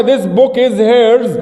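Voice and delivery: slow, drawn-out teacher model; slow model sentence. Shown as a demonstration. Teacher recapping the example slowly. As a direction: say it word by word. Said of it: "هذا الكتاب ملكها".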